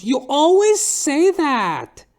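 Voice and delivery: slow, high, loud falsetto drawl; drag queen catchphrase. Retold or imitated. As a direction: tease him with the catchphrase.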